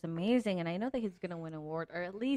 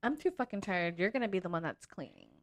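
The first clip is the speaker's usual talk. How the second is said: put-on American English accent. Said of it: "my American English accent comes out".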